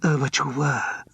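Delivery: insist, slow and tipsy; asserting. A narrator's reading. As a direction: press the point warmly. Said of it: "asserted Zoe".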